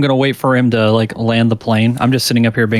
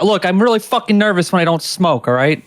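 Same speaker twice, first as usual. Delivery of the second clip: nervous smoker; 6 semitones higher than usual. Acted. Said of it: "He's like".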